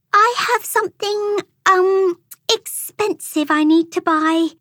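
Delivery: put-on high, measured girl's voice; said calmly. A narrator's reading. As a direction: keep it polite and level, pitched high. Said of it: "Amelia said calmly".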